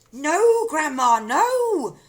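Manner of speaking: put-on high, loud, alarmed boy's call; calling back. A narrator's reading. Boy begging grandma to stop, loud call. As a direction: shout up to stop her. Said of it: "George called back".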